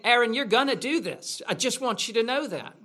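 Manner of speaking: lightly hammed-up intimidation; acted menace. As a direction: lean on him like a pushy mob. Crowd menacing Aaron, acted quote.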